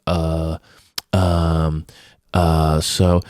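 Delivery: low, halting imitation of someone stuck; mock tongue-tied stalling; mock stumped. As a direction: imitate being lost for words with spaced-out filler. Imitating Jen stuck for an answer.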